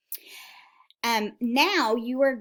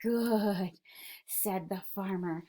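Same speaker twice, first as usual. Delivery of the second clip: relieved farmer; 2 semitones lower, 7 dB quieter, slower than usual. Acted. Farmer relieved by quiet animals.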